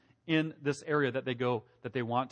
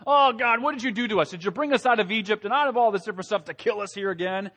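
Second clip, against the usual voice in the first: whiny, higher mock grumbling; mock complaining; 5 semitones higher than usual. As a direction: whine it like the grumbling crowd. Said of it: "complaining and murmuring and saying".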